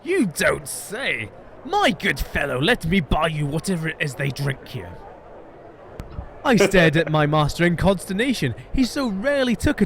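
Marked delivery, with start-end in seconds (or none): 0.0-4.9 a gentleman suddenly all interest; suddenly keen. Acted. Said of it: "Monsieur Fogg's demeanour altered entirely".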